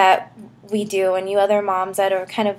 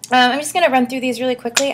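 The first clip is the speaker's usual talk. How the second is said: out of breath; faster than usual. Real, not acted. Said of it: "I don't know why I'm out of breath right now".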